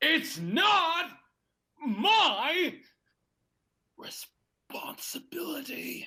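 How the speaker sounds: very high, distressed and upset, drawn-out my. Redoing the line after being told to do it over: more upset. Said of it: "More upset".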